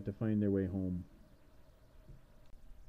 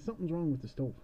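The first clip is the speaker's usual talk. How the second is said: put-on sly girl voice; 6 semitones higher than usual. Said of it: "And she's".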